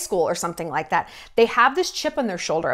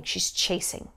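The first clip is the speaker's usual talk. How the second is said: whispered verdict; 5 semitones lower, 9 dB quieter than usual. Real, not acted.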